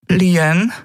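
a high, rising call of her name, a touch uneasy; intimidated. A narrator's reading. Mother announcing strangers at the door, mildly intimidated. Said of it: "eingeschüchtert".

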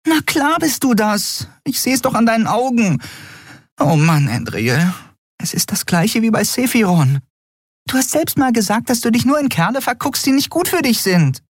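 hohe, aufgeregte Frauenstimme; hoch und empört, fassungslos; aufgebrachte Freundin. Acted. Nelen voiced high. (hohe, empörte Stimme der Freundin)

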